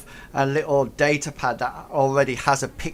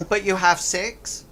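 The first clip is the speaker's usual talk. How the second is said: puzzled goblin; 6 semitones higher than usual. Acted. Goblins question the pun.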